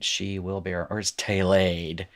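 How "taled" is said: taled with the accent carefully placed. Shown as a demonstration. Teacher shows students where taled's accent goes, careful stress. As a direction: say taled with deliberate syllable stress. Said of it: "Get the accent in the right place".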